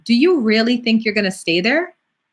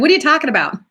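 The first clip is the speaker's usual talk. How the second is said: incredulous; 6 semitones higher, 4 dB louder, much faster than usual. Retold or imitated. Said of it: "And Janet said".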